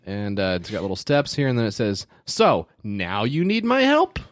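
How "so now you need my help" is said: Jewish guy voice. Acted. Reading sample responses in character.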